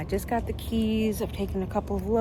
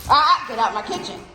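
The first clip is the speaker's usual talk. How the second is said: mock scolding; 2 semitones higher, 6 dB louder, faster than usual. Real, not acted. Scolding dogs again.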